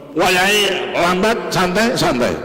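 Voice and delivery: slow, drawn-out "lambat". Shown as a demonstration. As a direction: stretch "Wayahe" out lazily, voice lifted. Demonstrates camel told to go slow.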